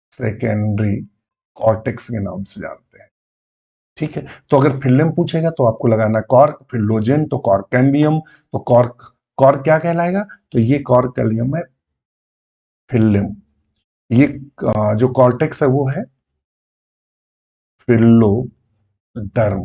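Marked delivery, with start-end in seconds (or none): 0.1-3.1 सेकेंडरी कॉर्टेक्स said slowly and softer, word by word; slow soft repeat. Shown as a demonstration. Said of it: "इसको सेकेंडरी कॉर्टेक्स के नाम से जानते हैं". 17.8-19.6 फिलोडर्म stretched very slowly; drawn-out term. Shown as a demonstration. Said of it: "समझिएगा".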